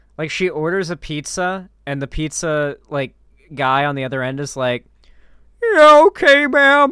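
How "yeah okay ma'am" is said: put-on very high, loud voice-cracking teen. Retelling a pizza order, as the guy on the other end, voice-cracking teenager voice. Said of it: "my best like voice cracked teenager voice".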